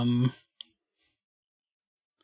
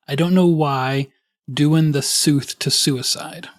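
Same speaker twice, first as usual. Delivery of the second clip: slow lyric reading; slower than usual. Acted. Reads song lyrics aloud.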